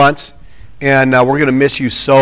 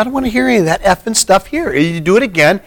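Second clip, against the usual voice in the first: mock angry threat; 6 semitones higher than usual. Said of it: "She said".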